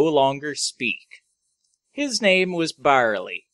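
measured storyteller read with pauses; story narration. A narrator's reading. Host reading his space bar story to co-host, story narration. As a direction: narrate it like a tall tale.

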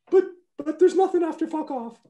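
high-pitched, sputtering yell; exasperated coach outburst. Retold or imitated. Coach protests to player in office, exasperated yell. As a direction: sputter it out high, at wit's end.

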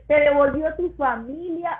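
holding back real crying; real tears. Real, not acted. Moved while telling her husband's restoration. (llanto real contenido)

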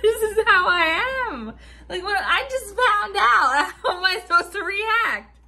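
high, loud words half laughing, half crying; laughing through tears. Real, not acted. Explaining to her manager why she laughs, laugh-crying.

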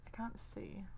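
breathy unvoiced whisper; hushed whisper into the dark. Real, not acted. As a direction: whisper it while straining to see. Peering into dark game room.

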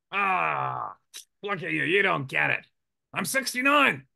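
lightly voiced old doctor, high and carefree; imitating the old doctor. Retelling the doctor's brag, lightly voiced and carefree. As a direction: play the doctor shrugging off death. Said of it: "He goes".

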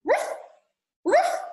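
short, high-pitched woofs; two clipped barks with a gap; dog barking. A narrator's reading. Teacher voicing the dog in a story, high woofs.

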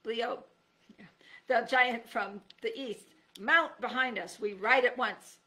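slow, loud knightly proclamation; knight's voice. Acted. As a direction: announce it like a bold knight. Knight's voice in story.

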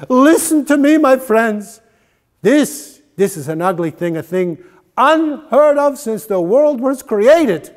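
loud, high, urgent appeal; rabbi's impassioned sermon. A narrator's reading. Rabbi Yosefel urges the congregation to search, impassioned. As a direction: plead with the congregation like a holy man.

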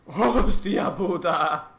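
slow, drawn-out astonished swear; stunned exclamation. Real, not acted. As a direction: stretch it out in disbelief. Reazione a qualcosa nel gioco.

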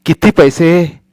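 put-on an innocent old granny asking; old grandmother. Grandmother asking Sonya how much money, innocent.

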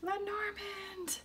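drawn out high and slow; high, stretched happy call; sing-song. Real, not acted. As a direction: sing the name as she finds it. Finds her card deck.

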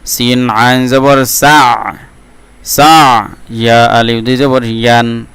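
slow, even, drawn-out syllable recitation; Quran spelling drill. Shown as a demonstration. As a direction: spell it out, then stretch the joined word. Teacher models spelling drill.

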